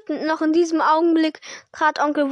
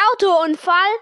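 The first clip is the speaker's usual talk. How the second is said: Hagrid thundering; 3 semitones higher, 4 dB louder than usual. Acted. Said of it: "donnerte Hagrid".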